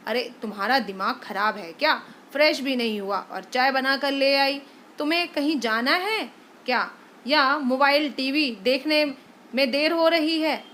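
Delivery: quick, irritated scolding; irritated husband. Acted. Husband annoyed that wife brought tea, fast and scolding. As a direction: snap at her for bringing tea.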